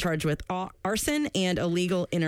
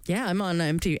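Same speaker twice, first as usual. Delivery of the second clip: whisper. Pretend. Buyer whisper.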